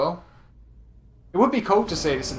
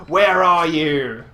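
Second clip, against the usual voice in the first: slow, then louder on the second line; imitating a confused NPC; 3 semitones higher, 11 dB louder than usual. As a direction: play him dim and surprised. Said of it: "he's going".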